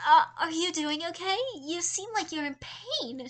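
high fake-caring girl; sweet concern. A narrator's reading. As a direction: sound concerned while faking it. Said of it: "she repeated".

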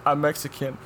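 high-pitched mock weeping; imitated crying. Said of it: "the test subject starts crying".

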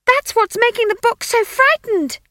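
high, loud panicked shriek. Acted. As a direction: shriek it into his ear. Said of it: "she shrieked in his ear".

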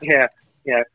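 high radio host voice; high hyped radio DJ; a rapper. Pretend. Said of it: "your boy Lil Wayne".

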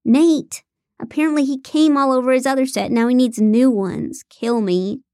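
exasperated griping. Acted. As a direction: gripe about a disgusting chore. Issa griping about her chore.

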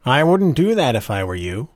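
usual speaking voice

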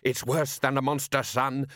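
urgent father's call; shouted. Acted. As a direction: shout the warning to your son. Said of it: "shouted Solid as the oars".

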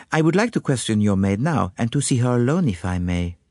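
put-on lightly accented, deferential investigator; lightly voiced courteous detective. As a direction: make a courteous, formal request in character. Voices Poirot in the story.

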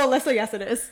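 loud, firm comeback; mock-indignant contradiction; retold protest. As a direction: re-enact objecting to the boss, loudly. Acted argument with boss.

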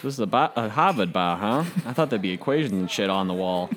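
Boston street tough. Acted. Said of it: "Boston street tough".

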